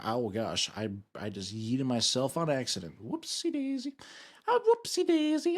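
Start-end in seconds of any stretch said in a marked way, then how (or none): 3.0-5.6 high put-on Asian accent voice, comic and squeaky. Streamer to chat after crashing the car, high put-on Asian accent voice. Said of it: "doing my Asian voice".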